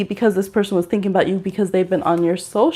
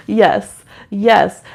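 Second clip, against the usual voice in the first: ordinary talk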